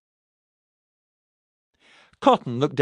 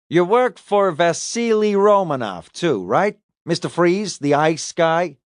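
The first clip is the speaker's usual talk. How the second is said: higher-voiced detective probing for confirmation; interrogating detective; 6 semitones higher than usual. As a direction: press the suspect about his connections. Detective questions suspect about employer.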